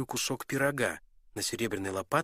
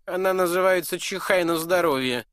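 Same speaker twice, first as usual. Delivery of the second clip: high, loud prince naming "чихай на здоровье"; smug prince; 9 semitones higher, 9 dB louder than usual. Acted. Prince teasing the dwarf with "чихай на здоровье". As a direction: savour the secret name "чихай на здоровье".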